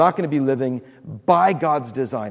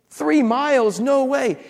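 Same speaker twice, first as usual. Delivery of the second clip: high, disbelieving "no way"; pitched-up incredulous scoff; incredulous disbelief; 9 semitones higher, slower than usual. Acted. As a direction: scoff at the idea like it's impossible. Incredulous reaction to a jump.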